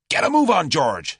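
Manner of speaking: high, loud shout to the driver. A narrator's reading. Julius shouts to the chauffeur to drive off, loud. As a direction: bark the order over the noise. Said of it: "shouted Julius".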